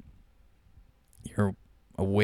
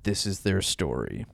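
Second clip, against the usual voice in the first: dramatic voiceover, slow at end; movie trailer narrator. Acted. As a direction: announce the epic tale.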